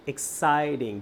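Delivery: এক্সাইটিং drawn out as ex-ci-ting; teacher's stretched-out এক্সাইটিং; syllable by syllable. Shown as a demonstration. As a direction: break এক্সাইটিং into its sounds, ex, citing. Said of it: "দুইটা sound".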